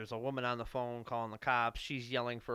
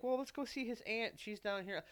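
friend's high plea; 10 semitones higher, 4 dB quieter than usual. Retold or imitated. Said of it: "she's like".

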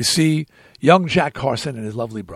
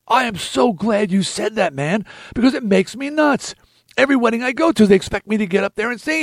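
higher-pitched retold venting; exasperated relief; 6 semitones higher than usual. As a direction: gush in agreement, mildly worked up. Acted relieved agreement, venting.

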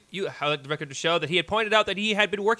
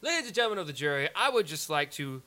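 courtroom lawyer; 2 semitones lower than usual. Acted. Lawyer's closing address to jury.

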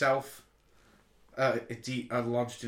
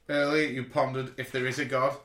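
menacing villain line; 7 dB louder than usual. Retold or imitated. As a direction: draw out the last words like a villain. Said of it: "He goes".

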